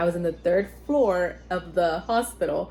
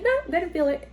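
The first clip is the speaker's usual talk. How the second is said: imitated husband; 10 semitones higher, much faster than usual. Husband's denial acted out.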